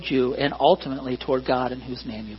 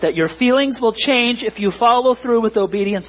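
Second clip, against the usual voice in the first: raised, fervent preaching; emphatic, fervent; 5 semitones higher than usual. Real, not acted. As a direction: stake your life on it. Emphatic vow.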